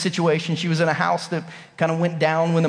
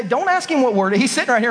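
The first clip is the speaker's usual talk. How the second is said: ordinary talk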